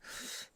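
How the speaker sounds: very soft, short laugh; small chuckle. Acted. Host about to introduce newcomer, soft chuckle. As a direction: chuckle lightly under your breath. Amused before introducing guest.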